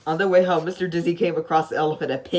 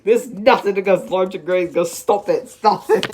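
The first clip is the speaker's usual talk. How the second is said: worried protest; 3 semitones higher, 7 dB louder than usual. Acted. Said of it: "looking worried".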